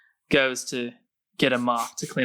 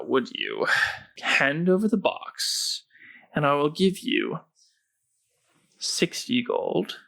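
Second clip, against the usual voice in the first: ominous hooded stranger. Acted. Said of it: "hooded figure says".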